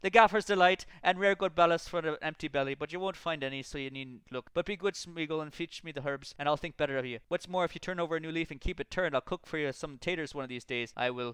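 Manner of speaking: loud, proud hobbit voice; hearty country hobbit tempting him; Sam voice. A narrator's reading. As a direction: sell the dinner proudly.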